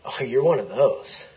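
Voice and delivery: half-laughing echo of the insult, rising at the end; mock retort. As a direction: throw the dismissal back with amusement. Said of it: "And I went".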